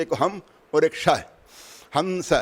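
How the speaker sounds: slowly separating हम and स; slow demonstration. Shown as a demonstration. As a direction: spell out the two breath sounds slowly. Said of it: "इस सांस में दो ध्वनियाँ होती है". (धीरे धीरे समझाते हुए)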